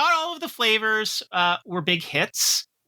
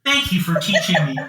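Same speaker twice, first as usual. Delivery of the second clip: a hint of a solemn robot child, a bit louder; computer child voice; 4 dB louder than usual. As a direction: play the computer kid bidding its father farewell. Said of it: "my kid was my computer".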